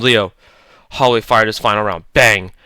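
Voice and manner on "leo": usual speaking voice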